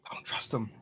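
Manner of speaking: low, hushed warning; whispered aside. Acted. Dentry looks back to warn the party, whispering. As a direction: whisper it back to your companions. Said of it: "Did you whisper that it, you know, that's not Jackson?".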